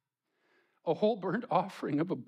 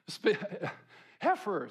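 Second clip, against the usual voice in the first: laughing at slip; 4 semitones higher than usual. Real, not acted.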